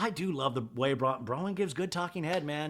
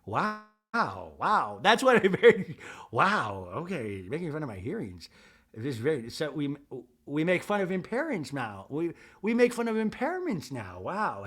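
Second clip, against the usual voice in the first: lightly voiced offended Meredith.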